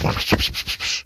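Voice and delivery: rapid burst of mouthed gunshot noises; puffed, hissy gunfire sound effect; imitated gunfire. He shoots people in the bathroom, imitated gunfire.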